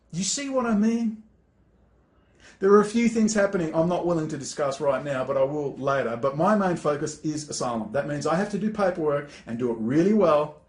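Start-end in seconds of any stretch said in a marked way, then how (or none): none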